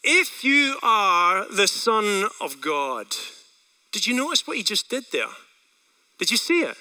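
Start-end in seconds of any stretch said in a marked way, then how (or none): 0.0-3.2 slow devil quote. Retold or imitated. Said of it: "The devil said to Jesus".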